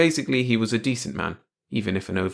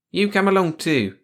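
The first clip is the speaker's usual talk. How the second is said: hasty; 10 semitones higher, 5 dB louder than usual. Acted. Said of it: "he said hastily".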